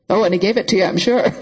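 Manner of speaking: sneering, laughing; mock her with a laugh. Mocking reply with laugh.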